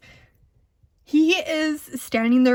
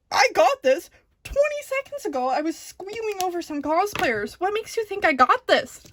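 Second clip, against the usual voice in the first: incredulous; 6 semitones higher than usual. Real, not acted. Disbelief at brother's encouragement.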